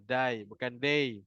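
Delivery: "Dai" said with a clear a-i, set against "day"; dai not day. Shown as a demonstration. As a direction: contrast "Dai" and "day" carefully. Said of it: "dengar betul".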